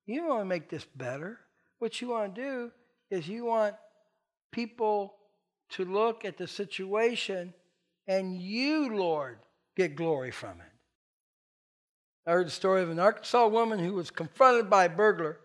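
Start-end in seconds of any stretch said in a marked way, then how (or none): 0.0-10.7 hushed prayer of realization. Retold or imitated. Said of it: "I said".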